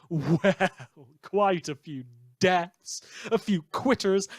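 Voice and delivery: a short dark chuckle into slow words; wry laugh. Real, not acted. Radio host laughing at the ward death toll, wry chuckle. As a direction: laugh it off, then drag out the count. Dark joke about dead wards.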